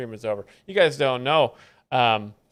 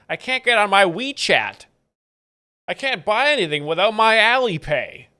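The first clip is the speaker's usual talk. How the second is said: higher, louder panicked complaint; a hammed-up wail of complaint; mock screaming; 5 semitones higher, 4 dB louder than usual. Woman in an AI video complaining about lost apps, mock screaming. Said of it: "this lady's probably screaming in Chinese".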